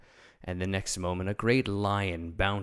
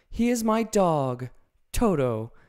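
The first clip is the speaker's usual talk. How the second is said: put-on much higher, louder proud girl; proudly name her dog; Dorothy presenting Toto to the lion; Dorothy's voice; 9 semitones higher, 7 dB louder than usual.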